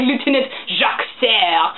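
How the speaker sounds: mock French accent on the name; put-on French pronunciation; bad French accent. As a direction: announce yourself in a hammy French accent. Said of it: "bad French accent".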